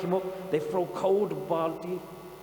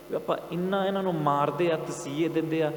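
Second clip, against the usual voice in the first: livid; 5 dB louder than usual. Retold or imitated. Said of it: "Zakaria's livid".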